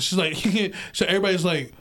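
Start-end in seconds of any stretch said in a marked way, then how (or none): 0.4-0.9 short acted-out laugh; imitated laugh. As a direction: mimic her unhinged laughing. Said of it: "She starts laughing".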